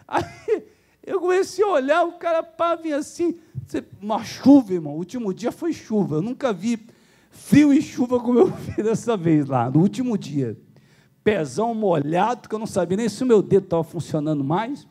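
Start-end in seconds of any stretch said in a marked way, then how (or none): none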